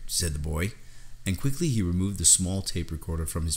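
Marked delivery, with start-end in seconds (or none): none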